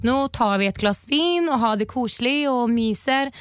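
lilting, slightly slowed Oslo Norwegian. Shown as a demonstration. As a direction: demonstrate a sing-song Oslo Norwegian accent. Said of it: "om oslonorska är sån här".

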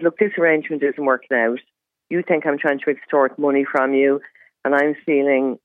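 composed, matter-of-fact quote of oneself; really calm. Retold or imitated. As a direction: recount it calmly and evenly. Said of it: "uh, really calmly".

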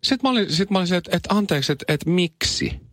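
high incredulous "anteeksi, miksi?"; mock surprise. Retells his surprised reaction. (korkea, epäuskoinen ihmettely)

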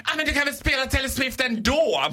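high-pitched mock pleading; pushy girl. Pushy girl pestering the DJ, high imitated wheedling. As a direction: nag the DJ in a girly imitation. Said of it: "de här näbbiga tjejerna".

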